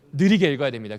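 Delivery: answering his own question to the class, 느리게 stressed; stress on slow. Shown as a demonstration. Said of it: "어떻게 읽어야 된다고요?".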